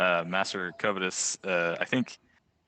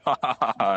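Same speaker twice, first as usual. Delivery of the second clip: loud, higher-pitched "ha ha ha"; forced, back-slapping guffaw; mock hearty laugh; 5 semitones higher, 6 dB louder than usual. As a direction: put on a big chummy laugh. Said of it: "I'm just gonna be like".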